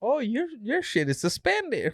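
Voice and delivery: very high, slow put-on cop voice; mock cop. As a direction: play the cop finding it. Imagining cop's discovery.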